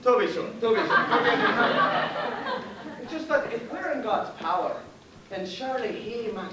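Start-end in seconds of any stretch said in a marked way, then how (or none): 0.5-2.6 much higher, very slow, laughing through it; mocking the officer's words with a laugh; laughing mock echo. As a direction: stretch it out high with a laugh. Repeats phrase, then mocks it.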